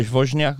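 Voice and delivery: imitated Polish "Wozniak" as "VOZH-nyak"; Polish pronunciation. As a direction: say "Wozniak" like a Pole, V first. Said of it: "if you ask the Polish person".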